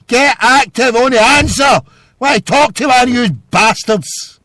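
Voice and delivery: high-pitched, loud exasperated yelling; furious rant. Real, not acted. Host berating callers who will not answer, furious yelling. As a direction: blow up at them, voice climbing.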